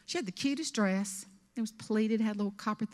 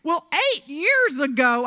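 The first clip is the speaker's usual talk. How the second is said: mimicking the woman; 5 semitones higher, 9 dB louder, slower than usual. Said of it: "She said".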